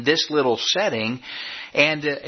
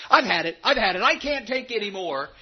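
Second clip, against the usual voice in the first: rising, desperate cry of giving up; despairing Elijah; 6 semitones higher than usual. Retold or imitated. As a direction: play Elijah at the end of his rope. Preacher voices despairing Elijah.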